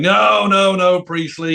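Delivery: mock bossy dismissal; acted overruling. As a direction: cut in and overrule him. Acts Brian overruling Rick.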